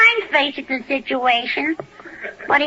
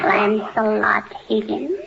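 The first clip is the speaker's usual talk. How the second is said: mock father signature; 7 semitones lower, 4 dB quieter, slower than usual. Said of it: "My report card is all signed".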